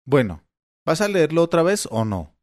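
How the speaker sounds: put-on old man pushing, voice going shrill. Old father demanding the numbers again, shrill. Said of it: "preguntó Tom con voz chillona".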